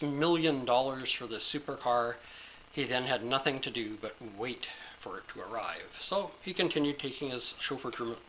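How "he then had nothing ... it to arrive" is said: whispered, soft aside. Acted. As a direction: lean in and whisper it.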